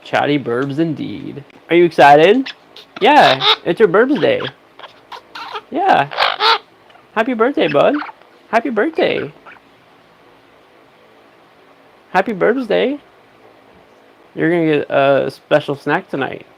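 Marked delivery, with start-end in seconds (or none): 1.7-13.0 excited pet talk. Real, not acted. Birthday talk to pet bird.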